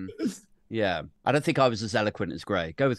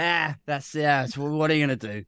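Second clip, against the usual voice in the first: resigned laughing shrug; 4 semitones higher than usual. Retold or imitated. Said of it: "And everyone's like".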